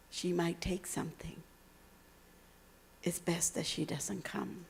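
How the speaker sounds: hushed disapproving whisper from a wealthy mother; a mother murmuring her refusal to her daughter; mother's whisper. Retold or imitated. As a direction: whisper it as if she mustn't hear.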